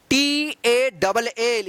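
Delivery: very slow letter by letter टी ए डबल एल; stretched spelling, each letter apart. Shown as a demonstration. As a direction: spell it out slowly for the class. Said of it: "इसको टाल या टॉ- मत पढ़िएगा".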